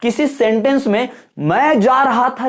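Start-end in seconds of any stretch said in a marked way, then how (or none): 1.4-2.5 "मैं जा रहा था" pitched up and drawn out; louder half, intonation demo. Shown as a demonstration. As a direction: push "मैं जा रहा था" out strongly, stretching "मैं". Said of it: "जोर से बोला". ("मैं जा रहा था" ज़ोर से, खींचकर)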